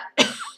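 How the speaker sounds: sudden high cough from swallowing wrong; sharp cough. Real, not acted. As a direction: cough out the drink gone down wrong. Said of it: "j'ai avalé de travers".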